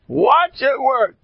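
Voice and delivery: "Watch it work" drawn out slowly, high and loud; slow emphatic repeat. Shown as a demonstration. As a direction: let each word of "Watch it work" land, slowly.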